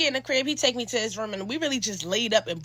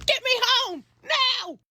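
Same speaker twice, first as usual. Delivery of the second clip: high, slow urgent order; frantic plea to go home; panicked demand; 12 semitones higher, much slower than usual. Retold or imitated. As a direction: push it out in a panic.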